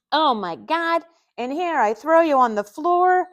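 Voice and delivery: high, loud embarrassed outburst; mortified embarrassment. A narrator's reading. Man who knocked her over, embarrassed and exclaiming. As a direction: wail it, mortified at yourself. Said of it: "putting his arms over his head in embarrassment".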